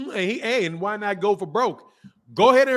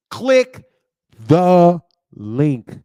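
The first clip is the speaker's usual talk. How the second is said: drawn-out shout; 3 semitones lower, 9 dB louder, much slower than usual. Real, not acted.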